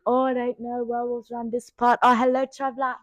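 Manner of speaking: imitating Trisha's roleplay greeting; mock tavern keeper. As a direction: greet a traveller like a hokey innkeeper.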